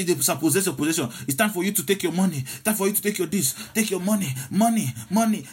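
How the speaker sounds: a light, fast parody of a greedy preacher; mocking prosperity preacher. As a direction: rattle it off like a money-hungry preacher mocking him. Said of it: "You say".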